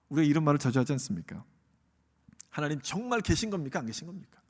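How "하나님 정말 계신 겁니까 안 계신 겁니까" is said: subdued question, trailing off softly; doubting question. Acted. Believer asking whether God is there, subdued doubt. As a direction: wonder it quietly to God.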